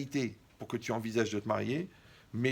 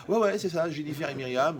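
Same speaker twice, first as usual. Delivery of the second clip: higher, louder eager confirmation; imitating an eager yes; eager student; 4 semitones higher, 5 dB louder than usual. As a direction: jump in excitedly like the young man.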